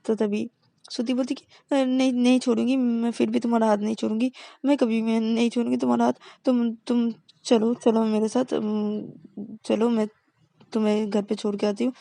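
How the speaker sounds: high, eager refusal; insistent pleading. Acted. Partner refusing to let go of her girlfriend. Shruti insists holding hand.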